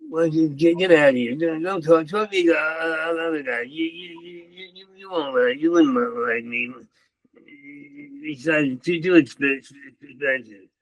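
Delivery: put-on sensitive, hurt stammer; acted crying. Rebuffing the guys at the bar, mock crying. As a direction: pretend to be close to tears while pushing them away. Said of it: "I would act out crying and how nobody likes sex my".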